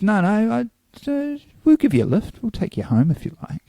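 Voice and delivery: high-pitched pleading offer; high voice for the girl pressing her offer; retold insistent offer. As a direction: pitch it up, coaxing. Retold girls offering a lift.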